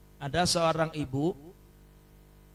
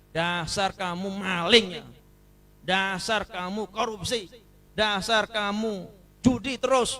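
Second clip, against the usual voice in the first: scornful insult; 5 dB louder than usual. Acted. Example of insulting a sinner.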